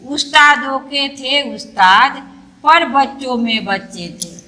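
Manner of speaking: slow poem recital. Shown as a demonstration. Teacher to pupils, showing how to read the poem, slow recital. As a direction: read the poem line by line, slowly. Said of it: "धीरे धीरे पढ़ेंगे और अच्छा से जैसे कविता बोला जाता है".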